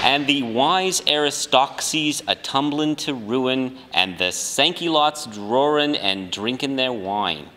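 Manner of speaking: lightly hammed-up Southern accent that sounds off; attempted Southern accent. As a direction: try for a Southern senator and land in Brooklyn. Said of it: "I'm sounding like a Brooklyn person".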